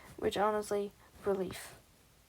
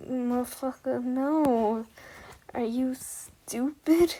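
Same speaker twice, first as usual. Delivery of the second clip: exasperated scolding; 2 semitones higher, 4 dB louder, slower than usual. Retold or imitated. Kid scolding fake Norwegian guy.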